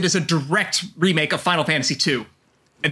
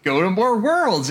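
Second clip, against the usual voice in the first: solemn mentor voice; 3 semitones higher, slower than usual. Retold or imitated. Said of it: "he just tells Terra".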